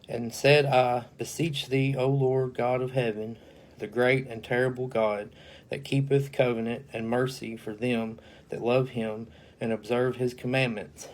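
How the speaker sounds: a formal, solemn Bible reading; measured King James recitation; scripture reading. Acted. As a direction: read the verse out like a preacher at the pulpit. Reads Nehemiah scripture aloud.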